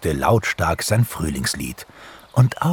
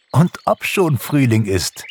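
higher, brisker cheerful confirmation; amused; 7 semitones higher, 3 dB louder than usual. A narrator's reading. Pixie confirms spring to the waking bear, amused. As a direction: confirm it with laughing good humour. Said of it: "lachte Pixie".

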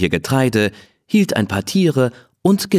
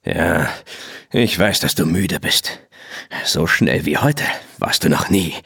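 gentle praise; 3 semitones lower than usual. Acted. Rancher praising Rose after the race, gently and lower. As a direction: soothe a tired horse you're proud of. Rancher soothing tired horse.

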